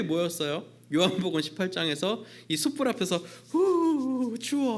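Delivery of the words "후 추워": high, cold shiver; Peter shivering. Acted. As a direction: blow on hands, freezing. Peter warming by the fire.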